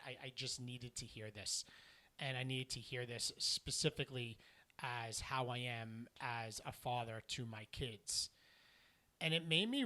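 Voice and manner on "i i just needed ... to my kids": quietly imitating a man too moved to speak; gently retold tearful father; choked-up father. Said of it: "he couldn't talk, like he had a lump in his throat".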